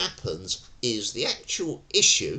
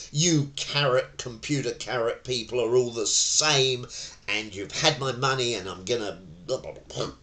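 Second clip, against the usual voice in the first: mock angry customer. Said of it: "and he loses it".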